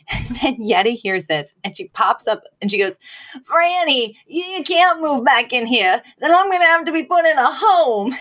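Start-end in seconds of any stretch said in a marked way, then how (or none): 3.5-8.1 higher-pitched imitated panic; fearful. Grandmother pleading with Franny not to move back, fearful. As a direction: pipe up in mock alarm. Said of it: "the fear in her".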